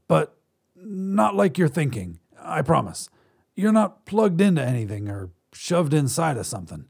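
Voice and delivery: a hint of a soothing alien. Alien reassuring humans.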